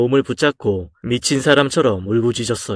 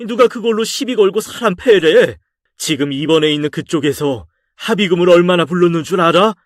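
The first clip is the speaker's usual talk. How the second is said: raised, exasperated fatherly scolding, pitch higher; a father berating his son, higher and harder on each question; 3 semitones higher than usual. Acted. Father scolding his son after the fight, raised and exasperated.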